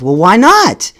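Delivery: lightly needling, lifted question; nonchalant teasing. Retold or imitated. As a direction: play the coolly tormenting teacher. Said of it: "nonchalantly, you know, he just, just torturing me".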